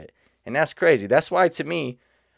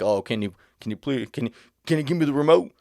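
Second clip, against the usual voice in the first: mock whiny complainer; 2 semitones higher than usual.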